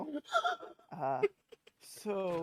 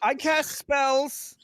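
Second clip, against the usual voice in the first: slow proud boast; 9 semitones higher, 7 dB louder, much slower than usual. Acted. Awkward boy boasting slowly.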